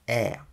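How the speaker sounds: Е said tight and compressed; squeezed English e. Shown as a demonstration. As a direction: squeeze the Е, don't open wide. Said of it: "Англійський е здавлений". (здавлений англійський е)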